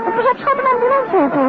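sudden high-pitched cry of alarm; alarmed warning. Acted. Wife warns her husband at the wheel, alarmed high cry. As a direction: jolt up high to warn him of the ambulance.

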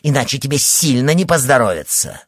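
loud, threatening outcry; angry threat. A narrator's reading. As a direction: keep shouting the threat. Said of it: "выкрикнула она".

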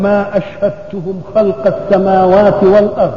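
slow, measured Qur'an quotation; verse recitation. Real, not acted. Preacher quoting scripture to his congregation on creation, measured recitation. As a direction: recite the verse slowly, word by word.

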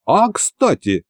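mildly livened, as if just remembering; perking up. A narrator's reading. Hero turns to old sorcerer Likhovid, perking up slightly. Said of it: "оживился я".

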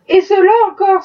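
wife protesting again to her husband; indignant outcry. Acted. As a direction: throw it back at him in disbelief. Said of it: "se récria de nouveau madame Shelby".

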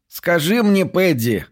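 high squeaky captain voice; a thin, high pitched boss. A narrator's reading. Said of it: "начал он своим писклявым голосом".

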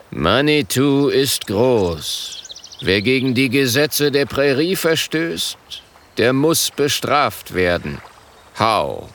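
slow, grave chieftain voice; solemn chief. Acted. Schwarzer Fuß spricht feierlich zum Rat. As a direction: speak like a dignified tribal elder.

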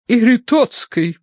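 high, slow lady's correction; correcting wife. A narrator's reading. Wife corrects husband on medium's name, emphatic. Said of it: "поправила миссис Меринг".

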